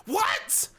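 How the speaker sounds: very high, rising "what"; squeaky-high comic astonishment; mock baffled yelp. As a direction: yelp it in exaggerated disbelief. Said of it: "you'd be like".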